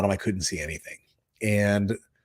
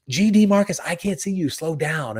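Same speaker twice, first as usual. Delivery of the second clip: retold angry yell; 6 semitones higher than usual. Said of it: "And I'm like".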